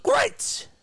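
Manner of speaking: sudden voice-cracking high "great!"; cartoon genie yelling "great!". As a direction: crack up into a squeal. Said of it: "he, like, yells".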